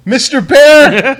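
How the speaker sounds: high slow pleading; high, drawn-out plea to a bear; high pleading lady. Retold or imitated. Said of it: "She looked at the bear. She".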